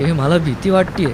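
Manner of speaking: put-on a scared girl whimpers in a rocking boat; whimpering. A narrator's reading. Kaumudi whimpers to Aruni in the rocking boat, scared. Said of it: "कौमुदी विवळली".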